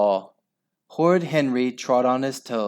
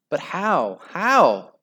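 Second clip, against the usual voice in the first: desperate; 6 semitones higher, 3 dB louder, slower than usual. A narrator's reading. Henry's desperate thoughts.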